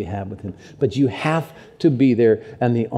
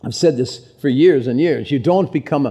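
Irish accent carried over by accident; stuck in Irish accent; 2 semitones higher than usual. Real, not acted. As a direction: slip on speaking in the Irish accent. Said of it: "why am I still in the accent?".

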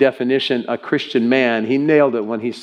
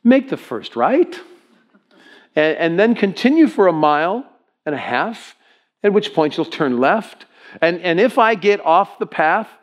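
lightly voiced navigation guide; higher, measured turn-by-turn directions; GPS voice; 5 semitones higher than usual. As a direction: give directions like a satnav. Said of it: "She says".

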